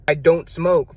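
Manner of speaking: flat, certain statement of fact; firm refusal. Shown as a demonstration. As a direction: say it like it's simply who you are. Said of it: "Do you see the difference?".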